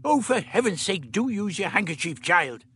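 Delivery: the Doctor snapping at Dodo to use her handkerchief; irritable snap. A narrator's reading. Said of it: "the doctor snapped irritably".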